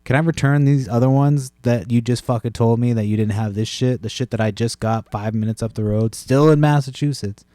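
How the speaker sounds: imagine storming back in to complain; mock angry return. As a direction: customer fantasizes confronting the clerk, rising to a loud sarcastic peak. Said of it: "walk in and be like".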